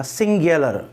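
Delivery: सिंगुलर said slowly with a long final r; correct singular. Shown as a demonstration. Teacher drilling सिंगुलर pronunciation for exam students. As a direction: model the sound in सिंगुलर for the class. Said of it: "इसमें ये sound आती है".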